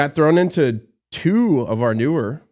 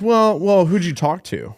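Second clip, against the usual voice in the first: clients asking; 7 semitones higher, 5 dB louder than usual. Retold or imitated. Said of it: "And they're like".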